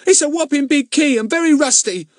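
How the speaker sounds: panting. Acted. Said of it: "panted Ern".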